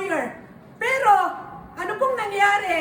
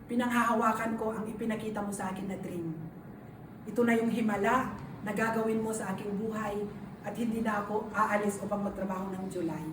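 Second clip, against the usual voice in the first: much softer and lower, hushed; soft retold prayer; 8 semitones lower, 8 dB quieter than usual. Retelling her prayer to the Lord, hushed and earnest. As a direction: pray it back quietly and earnestly. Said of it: "sabi ko, "Lord".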